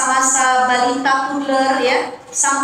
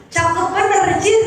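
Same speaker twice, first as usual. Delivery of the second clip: imitating a rough father; 5 semitones higher than usual.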